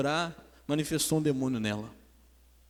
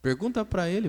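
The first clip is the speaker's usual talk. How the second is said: mock taunting demon, pitch lifted; sarcastic demon; 4 semitones higher than usual. Demon taunting the pastor about the husband, sarcastic. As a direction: imitate a demon's sly taunt. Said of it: "deu aquela risada sarcástica e falou assim".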